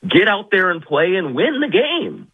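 high-pitched rallying cry; rousing exhortation. Real, not acted. Guest urging the team to go play, rousing exhortation. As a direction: urge them on, pitch up high.

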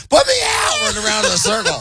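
very high, hammed-up cry for help; squealed pretend alarm; mock panic. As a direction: yelp like you're comically on fire. Acting someone on fire panicking.

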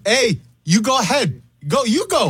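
high, sing-song put-on Asian accent; mock Asian accent. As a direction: wave the other driver on in a mock Asian accent. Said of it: "Did I sound Asian?".

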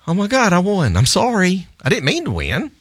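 high, giddy fake-sorry gush; mock apologetic glee. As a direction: gush that you didn't mean to win. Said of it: "I was like".

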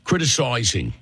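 single word mimicked in Brooklyn accent; Three Stooges Brooklyn accent. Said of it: "That sound, that is unique. Stooges have that".

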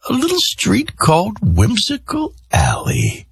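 slow high mysterious TV narrator; true crime narrator. Retold or imitated. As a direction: tease it like a Dateline host. Imitating Dateline narrator.

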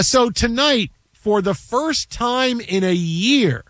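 slow, drawn-out broadcaster setup; slow, weighty sportscaster intro; dramatic announcer build-up. Acted. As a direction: stretch it out like a big reveal.

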